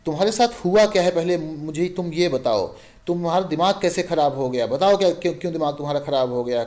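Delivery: husband losing his temper with his wife, shouting. Acted. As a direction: blow up and yell at her. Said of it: "चिल्ला के कहता है".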